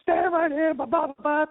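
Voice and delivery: high, loud barked orders; mock security guard yell. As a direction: yell it like a guard herding drunks. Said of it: "fucking screaming at us".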